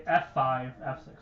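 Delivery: stuttering and tripping over words; stumbling stutter while listing. Real, not acted. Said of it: "Oh my god, I'm stuttering".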